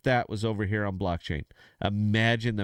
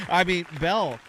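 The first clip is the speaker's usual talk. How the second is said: higher, stammering disbelief; flabbergasted stammer, pitched up; speechless; 6 semitones higher than usual. Real, not acted. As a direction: stumble over repeated words, lost for what to say. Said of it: "you knocked me speechless here".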